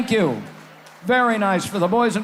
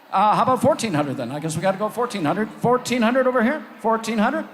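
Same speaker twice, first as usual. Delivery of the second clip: auction bid calling; auctioneer; 2 semitones higher than usual. Acted. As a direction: call the bids like an auctioneer.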